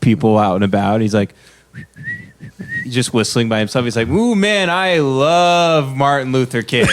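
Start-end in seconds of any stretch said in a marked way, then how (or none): 4.1-6.9 high, slow, hammed-up nervous white guy; mock nervous white guy. Nervous white guy on a Compton corner, high and hammed-up. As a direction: whistle past trouble in a high put-on voice.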